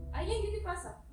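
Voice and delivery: mock startled. Preacher mimics her own rejection.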